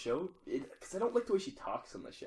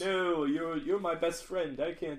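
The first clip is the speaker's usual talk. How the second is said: mocking Daenerys; 4 semitones higher, much slower than usual. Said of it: "I hate how she says that".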